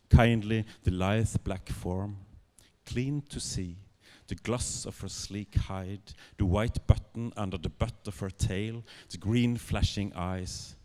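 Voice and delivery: measured, unhurried literary reading; story narration. A narrator's reading. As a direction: savour each phrase as a storyteller.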